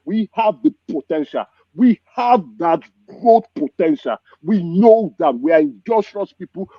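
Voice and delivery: pleading passionately with the people to stop it; impassioned plea. Real, not acted. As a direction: pour out real pain for the homeland, building to a cry. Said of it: the speaker doesn't put on an act.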